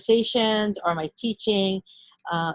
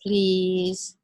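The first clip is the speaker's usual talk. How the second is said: put-on child saying please. Shown as a demonstration. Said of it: "What do you say?".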